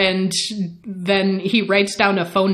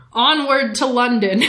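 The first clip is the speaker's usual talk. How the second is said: higher, playful rallying cry; mock-heroic call; 4 semitones higher than usual. Lestat whisks Louis off to London, mock-heroic cry. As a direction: announce the departure with mock grandeur.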